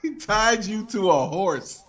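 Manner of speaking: slow, laughing astonishment; laughing disbelief. Real, not acted. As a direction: say it slowly through a laugh. Disbelief at guest's childhood story.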